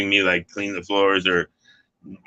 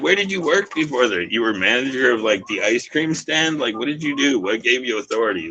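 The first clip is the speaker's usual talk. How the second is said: put-on pitched higher, scoffing questions at the young bosses; mocking incredulity; 4 semitones higher than usual. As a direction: sneer through each question like it's absurd. Mocking young managers' authority.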